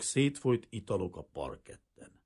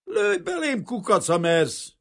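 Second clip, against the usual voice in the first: very high, loud snarled challenge; bare your teeth at the revolver; snarling dare; 13 semitones higher, 8 dB louder, slower than usual. A narrator's reading. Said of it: "vicsorgott rá Kazimír a revolverre". (vicsorgó, dühös kihívás)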